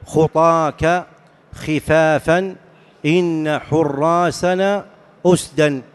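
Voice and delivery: slow, measured recitation of verse; reciting poetry. Shown as a demonstration. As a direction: recite the lines slowly, pausing between words. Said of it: "ومنه قول الشاعر". (إلقاء شعري بطيء)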